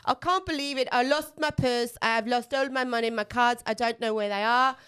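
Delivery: lightly voiced friend wailing about her lost purse; hungover friend panicking. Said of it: "but she's going".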